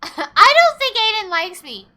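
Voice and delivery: laughing. Real, not acted. Laughing at game character's glare.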